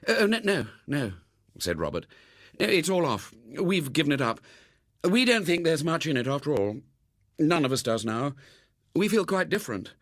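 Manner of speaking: put-on a boy eager to drop the subject; flustered boy. Robert hastily backs off.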